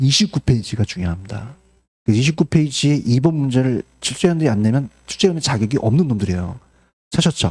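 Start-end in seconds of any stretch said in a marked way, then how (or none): 0.0-1.6 low, deep, emphatic voice. Teacher reviewing exam questions lowers the voice to stress a point. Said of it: "제가 목소리 깔고 얘기하는데".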